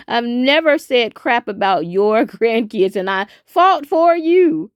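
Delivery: indignant outburst. Real, not acted. Indignant defence to seventy-four.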